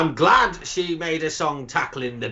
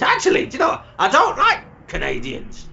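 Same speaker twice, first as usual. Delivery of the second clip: sudden outburst; 4 semitones higher than usual. Acted.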